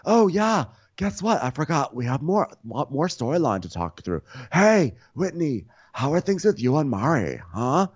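high, bright imitation of Lisa talking up the storyline; hamming up a housewife nudging Whitney; mock Lisa voice. Podcast host imitating Lisa prodding Whitney, high and bouncy.

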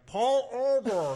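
high, drawn-out cop holler; mock police shout. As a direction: shout it like a loudspeaker cop, stretched out. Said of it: "you hear a police car shouting".

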